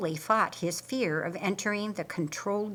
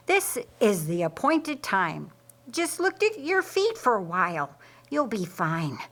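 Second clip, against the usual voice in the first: quizzical. Acted. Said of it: "with a quizzical sound to his voice".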